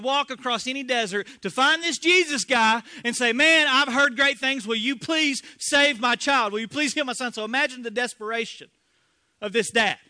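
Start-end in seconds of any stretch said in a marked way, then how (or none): 3.3-7.3 pleading father. Acted. Pleading father voiced in sermon.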